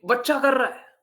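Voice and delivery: mild mock old lady making excuses; lightly voiced grandmother. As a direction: brush it off as a grandma would. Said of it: "बोली".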